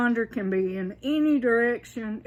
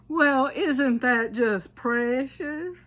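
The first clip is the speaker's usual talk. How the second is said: higher, drawn-out mock sweetness; slow, higher, killing them with kindness; sarcastic kindness; 4 semitones higher, slower than usual. Shown as a demonstration. Southerner to someone who has offended them, mock-kind and drawn out. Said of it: "You kill people with kindness".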